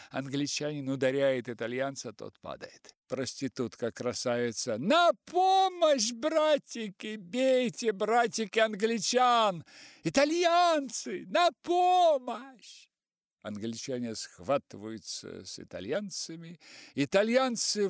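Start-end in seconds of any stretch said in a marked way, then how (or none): 4.8-12.9 high, loud, slow shrieking call; rally the sailors into the brawl; screaming for help. A narrator's reading. Красавица зовёт итальянцев на помощь, громкий крик. Prostitute calling brothers to fight.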